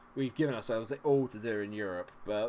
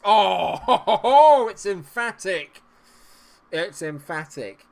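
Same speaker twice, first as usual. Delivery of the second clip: loud laughing celebration, slow; delighted goal cheer; 8 semitones higher, 16 dB louder, much slower than usual. Real, not acted. Gamer celebrating a goal, loud and laughing. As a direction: savor the goal with glee.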